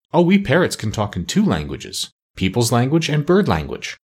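mildly proud boast; a touch of pride in the voice; proud parrot. Acted. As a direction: show off a little, proudly. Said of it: "said Polynesia proudly".

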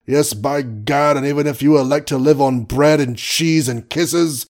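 lightly voiced blustering old colonel; pompous sputtering colonel.

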